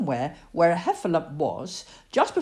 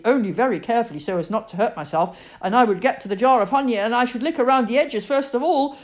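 excited; 6 semitones higher, 5 dB louder than usual. Acted. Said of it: "said Pooh excitedly".

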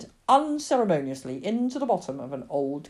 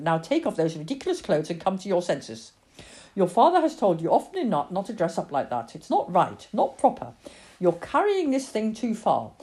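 emphatic, no-nonsense mother; scolding mother; 3 semitones higher, 5 dB louder than usual. Acted. Mother tells Lily to stop the convent game, firm scolding. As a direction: correct the child firmly, point by point.

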